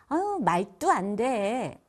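말도 안 돼 with tensed 안 뙈, slow; too hard tensed. Shown as a demonstration. Teacher shows harsh tensed 말도 안 돼. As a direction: overdo the tensed consonants in 안 돼. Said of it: "이렇게 세게 된소리를 하는 경우가 많아요".

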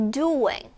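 "Doing" starts high and falls; high stress on Doing. Shown as a demonstration. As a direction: lift the first syllable of "Doing". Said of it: "여기가 높아요".

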